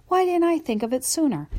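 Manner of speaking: high, thrilled question; excited. Acted. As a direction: bubble over with the idea. Dog thrilled by own idea.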